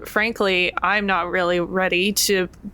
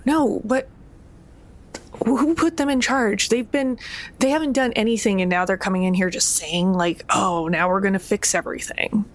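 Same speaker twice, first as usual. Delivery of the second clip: indignant Fatima. Acted. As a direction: push back hard, offended. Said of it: "Fatima is still going".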